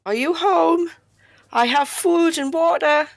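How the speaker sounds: high calling voice into a cave. Acted. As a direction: call out to someone unseen.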